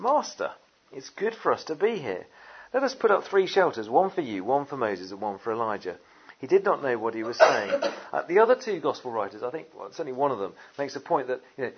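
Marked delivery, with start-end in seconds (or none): 0.0-6.0 Peter's eager words. Acted. Peter blurting at the mountaintop, eager. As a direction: blurt it out like an excited disciple. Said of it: "Peter said to him".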